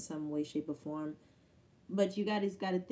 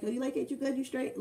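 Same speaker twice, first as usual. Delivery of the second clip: eager check-in; 7 semitones higher, 3 dB louder than usual. Retold or imitated. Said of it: "I'm like".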